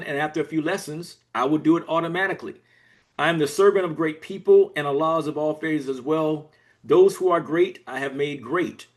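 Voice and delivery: deliberate, rhythmic recitation; poem recitation. Acted. Author speaking as habit to listeners, poem recitation. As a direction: recite each line as a measured declaration.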